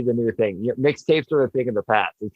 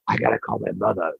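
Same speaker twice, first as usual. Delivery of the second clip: lightly imitated raspy actor, pitched down; 4 semitones lower than usual. Quoting David's weird friend from the movie, raspy voice. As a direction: do a hint of his rasp, a little lower. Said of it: "he had that raspy voice".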